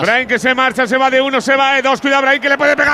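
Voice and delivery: quickening excited commentary; live play-by-play. Real, not acted. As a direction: build the call as he dribbles.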